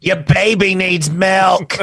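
a slow, high spooky nanny voice; ghost nanny voice. Acted. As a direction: play the eerie ghost nanny cooing the line. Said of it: "ghost nanny".

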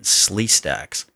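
laughing out the punchline. Real, not acted. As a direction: crack up at your own reference. Laughing at own reference.

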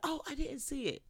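high, sweet fake innocence; lightly voiced old lady claiming she missed it; mock innocent old lady. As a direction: play dumb like an old granny. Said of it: "they'd be like".

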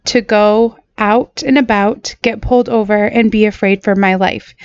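real, holding back tears, slowing down; fighting to get the words out; choked up. Real, not acted. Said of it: "very hard for me to say that without getting choked up".

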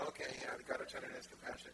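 casual, unmoved acknowledgement; mock indifference. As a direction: toss it off like old news. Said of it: "And we go".

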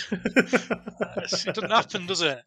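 slow, laughing through the words. Real, not acted. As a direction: still laughing as you say it. Laughing after the joke.

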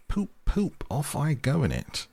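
very high, hooting motor horn; gleeful horn call. Acted. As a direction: toot like a horn and sail off gleefully. Toad gleefully imitates a car horn.

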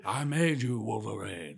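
put-on Scottish accent. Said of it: "with a thick Scottish accent".

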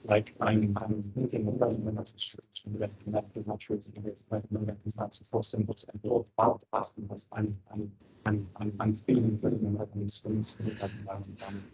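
garbled, robotic bad-mic voice; distorted connection, like a robot; alien voice. Real, not acted. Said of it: "it sounds like you're on an alien planet".

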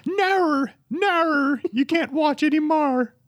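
very high, hammed-up Australian accent; mock Australian accent. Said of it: "I was gonna try".

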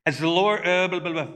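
flubbed reading dissolving into blah-blah; stumbled line, tossed-off nonsense syllables; blubbering slip. Real, not acted. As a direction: trip over the reading and babble it away. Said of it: "me blubbering".

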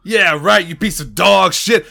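dropped-act taunt. Acted. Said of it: "who drops the act and starts running".

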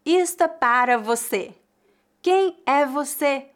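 "você" said in full, both syllables; no reduction. Shown as a demonstration. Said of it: "não há redução".

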